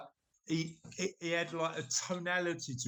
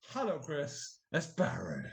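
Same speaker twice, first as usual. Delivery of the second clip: tapered name. Retold or imitated. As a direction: voice dropping away on the name. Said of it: "He tapered his name".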